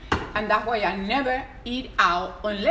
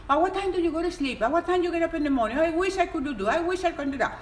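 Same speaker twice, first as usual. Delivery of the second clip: imitating followers; 5 semitones higher, faster than usual. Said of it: "A lot of people write to me".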